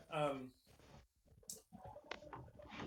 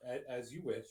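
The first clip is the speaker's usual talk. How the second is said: lower, lightly voiced smug villainess; smug acquiescence; 5 semitones lower, 4 dB quieter than usual. She looks back at you with a smile, mildly smug acquiescence. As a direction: let a smile sit in a lowered voice. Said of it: "smile on her face".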